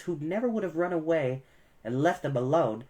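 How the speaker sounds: ordinary delivery, nothing marked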